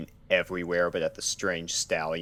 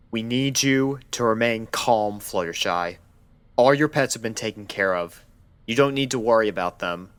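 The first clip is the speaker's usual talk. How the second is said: louder, higher, fast insistent doctor; urgent calming; 5 semitones higher, 6 dB louder than usual. Acted. Doctor to panicked Fluttershy, urgent and louder. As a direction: hurry to calm her down. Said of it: "ears flattened ... backpedaled".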